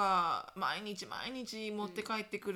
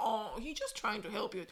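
mocking preachy mom; much slower than usual. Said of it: "みたいな".

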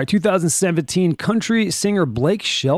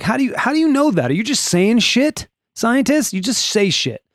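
high-pitched, incredulous questioning; indignant challenge; 7 semitones higher than usual. Acted. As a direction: take the scientists to task in a raised pitch. Mock challenge to scientists.

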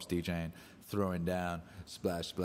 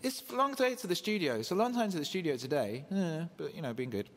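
put-on high little kid voice; child voice; 8 semitones higher than usual. Dad voicing his son on the long train ride, in a high kid voice. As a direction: play the six-year-old, patient. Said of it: "He's like".

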